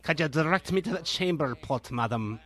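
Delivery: mock formal old-fashioned gentleman; old-timey pilgrim. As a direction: ask for the chamber pot like a prim pilgrim. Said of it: "there's a lot of old-timey".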